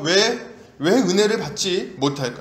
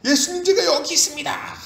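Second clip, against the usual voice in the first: high-pitched beggar's holler; crying out; 11 semitones higher than usual. Acted. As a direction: call out desperately to be noticed. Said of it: "여기 있다고 막 소리 지르는 거예요". (높은 목소리로 크게 외치기)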